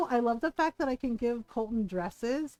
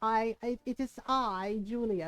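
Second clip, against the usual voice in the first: a hint of a haughty queen gracing her subjects; Julia voice; 2 semitones lower than usual. Shown as a demonstration. Friend hears her Julia voice, lightly grand diva. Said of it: "the Julia voice".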